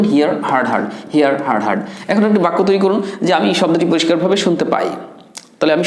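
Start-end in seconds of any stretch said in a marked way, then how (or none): 0.0-1.8 "হার্ড" as hard, with open ah; correct pronunciation drill. Shown as a demonstration. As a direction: recite "হিয়ার", then "হার্ড" twice without the ee glide. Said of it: "তাহলে আপনি বলবেন".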